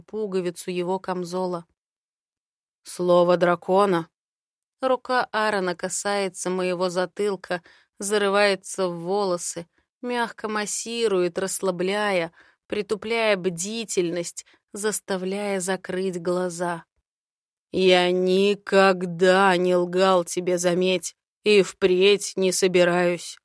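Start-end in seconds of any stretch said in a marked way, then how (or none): 2.8-4.1 slightly louder, lightly voiced man; a hint of a confident dragon man; Aaron's voice. Aaron's held voice. 17.7-23.4 slightly louder, lightly voiced man; a hint of a confident dragon man; Aaron's voice. Aaron's held voice.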